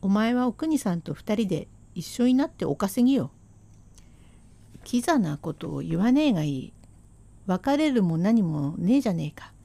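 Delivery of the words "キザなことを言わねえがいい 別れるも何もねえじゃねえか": husband's voice. Acted. Husband voiced in rakugo story.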